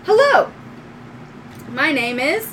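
high, bright-eyed robot greeting; little droid. Acted. Little droid waking to meet owner, high robot voice. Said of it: "your little light droid comes up and goes".

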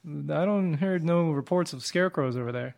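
farmer in a Southern drawl. Acted. Farmer denying scarecrow reports, Southern drawl. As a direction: put on a country Southern drawl. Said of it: "Give me a southern drawl".

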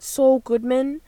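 trying out an American accent; light put-on American accent. Shown as a demonstration. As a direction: test the phrase in an American accent. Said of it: "I guess in the American accent".

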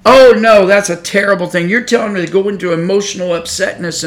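"Oh, no," yelped high and loud, then a whiny complaint; mock offended protest. Preacher mocking upset listeners, a loud offended protest. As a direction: imitate an affronted churchgoer, loud and indignant at first. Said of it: "they would be so upset with you".

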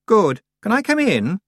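put-on high, loud haughty girl; a bossy young witch pushing in; proud young witch. A narrator's reading. Anagrama voiced by narrator.

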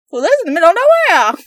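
fast, loud high rush. Real, not acted. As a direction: blurt it out fast. Rushed joke intro.

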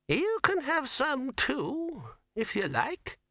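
put-on very high, slow old man offering kindly; high old man's gracious offer. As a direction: offer it like a generous old codger. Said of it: "he added graciously".

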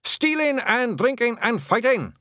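very high, gleeful Scots cheer; cheerful shout. A narrator's reading. Blue men boasting to the hag, high cheerful shout. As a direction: holler the list high and proud. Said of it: "shouted the blue men cheerfully".

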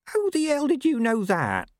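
very high, astonished farmer voice; startled farmer. Acted. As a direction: blurt it out, caught out. Farmer found out by the rider.

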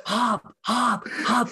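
high-pitched yelling of "Hop" as if calling from the stands; retold screaming. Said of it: "And I just start screaming".

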